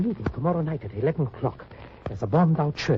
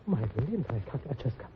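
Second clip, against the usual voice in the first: broken grief. Acted. Grieving the dead wife.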